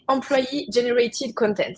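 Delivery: slow, deliberate English-accented "Employee Generated Content". Shown as a demonstration. Trainer names the English acronym to students, slow English accent. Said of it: "à nouveau, un bel accent, euh, anglais".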